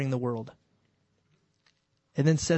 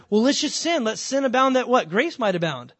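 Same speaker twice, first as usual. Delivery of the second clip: higher, eager voice of a careless sinner; raised, mocking voice of someone abusing grace; mock reckless sinner; 4 semitones higher, 4 dB louder than usual. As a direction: play the fool who wants to keep sinning. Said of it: "that's what Paul made that argument".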